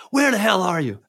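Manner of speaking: imitating the caller's first outburst; retold angry demand. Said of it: "he's super pissed off".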